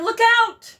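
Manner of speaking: high piercing goose shout; shouted warning. Acted. Little Goose crying out to the moon, shouting.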